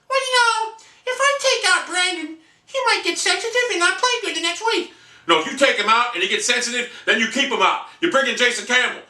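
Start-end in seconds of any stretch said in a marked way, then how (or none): 0.1-4.9 high whiny mock coach voice. Fan mocking coach Chudinski on the sideline, high whiny voice. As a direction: sneer as a timid coach. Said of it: "Chudinski sitting on the sideline like".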